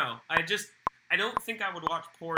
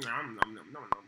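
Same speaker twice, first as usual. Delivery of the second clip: munching caterpillar; 8 semitones lower, 4 dB quieter than usual. Real, not acted. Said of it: "making gurgling sounds right now with that weird gummy cola".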